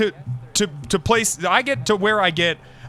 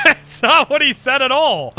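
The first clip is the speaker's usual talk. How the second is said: loud, higher indignant denial; loud protest; 7 semitones higher, 7 dB louder than usual. Real, not acted. Friend twisting a cop's words, loud indignant denial. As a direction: shout it down in disbelief.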